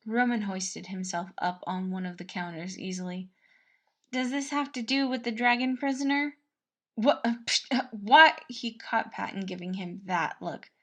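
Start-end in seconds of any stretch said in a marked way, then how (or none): 4.1-6.4 knowing cook. A narrator's reading. Narrator voices Patton. 7.0-8.4 high, loud startled yelp; a prince caught out, loud high what; flustered what. A narrator's reading.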